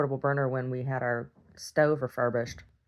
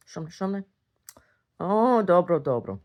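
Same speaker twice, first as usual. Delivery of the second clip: a hint of the doting grandma, a bit higher; lightly voiced babushka pleased with her bread; 5 semitones higher, 5 dB louder than usual. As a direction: praise the loaves like an old granny. Babushka persona admiring the bread.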